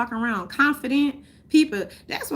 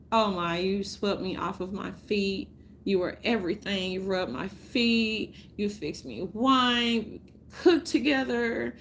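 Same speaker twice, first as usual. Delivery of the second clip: mock sweet talk; 3 dB quieter than usual. Ex boyfriend praised in soft mock-tender voice. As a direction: lightly sweet-talk the ex, softer. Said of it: "And I'm like".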